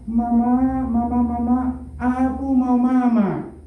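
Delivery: mild whimpering plea for mama, drawn out; crying child. Retold or imitated. Preacher voicing a child left behind, mild mock whimper. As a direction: lightly play the small boy crying for his mother. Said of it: "menangis lagi dia dengan kata-kata yang sama".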